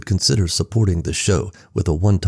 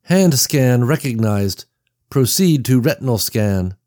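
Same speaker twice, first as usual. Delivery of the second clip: electronic voice; 4 semitones higher than usual. Acted. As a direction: read it like a security system. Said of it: "An electronic voice sprang to life".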